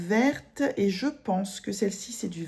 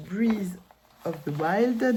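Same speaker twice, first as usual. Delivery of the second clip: English title in a heavy French accent; much slower than usual. Real, not acted. Embroiderer reading the Zelda title in her French accent. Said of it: "Désolée pour mon accent dégueulasse".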